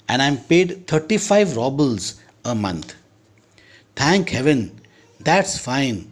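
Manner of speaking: slow, careful English read-aloud; story reading. A narrator's reading. Teacher reads the Chekhov story to students, slow and careful. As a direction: read each phrase slowly for the class.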